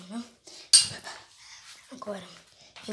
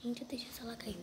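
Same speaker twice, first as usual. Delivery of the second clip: whispering; 11 dB quieter, faster than usual. Real, not acted. Sneaking in the game.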